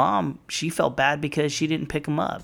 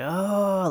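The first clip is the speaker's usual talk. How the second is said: mock manly scream; 9 semitones higher than usual. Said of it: "he lets out a scream".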